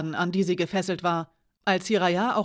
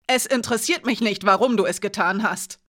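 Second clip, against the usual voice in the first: growled; 2 semitones higher, 6 dB louder than usual. Acted. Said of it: "knurrte Alina".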